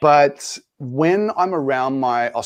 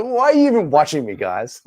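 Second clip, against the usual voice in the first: mock exasperation. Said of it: "I'll be like".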